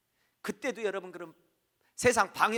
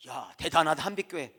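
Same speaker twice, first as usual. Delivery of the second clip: impressed exclaim; 11 dB louder than usual. Retold or imitated. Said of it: "이렇게 하는 사람들도 있고".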